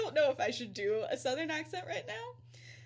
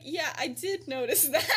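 louder, higher, laugh breaking in; laughing retold reply; 3 semitones higher, 4 dB louder than usual. Headmaster admitting to professor he noticed, laughing. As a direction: crack up midway through the quote.

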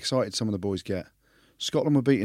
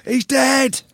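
mock alarm; 12 semitones higher, slower than usual. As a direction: squeal he's dead in fake horror.

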